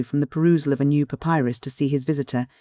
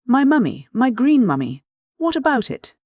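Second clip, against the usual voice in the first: much higher, louder indignant cry; excited outburst; 9 semitones higher, 4 dB louder than usual. A narrator's reading. Professor hearing of his lost mummy, high-pitched excited demand. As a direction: pitch leaping up with agitation. Professor rises to skipper's bait.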